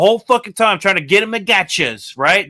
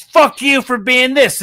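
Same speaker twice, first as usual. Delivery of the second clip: slow, high and loud mock shout; mock angry shout; 6 semitones higher, 4 dB louder, slower than usual. Interviewer jabbing at the guest, a slow loud mock shout. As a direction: bark it slowly at the guest. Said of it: "and says".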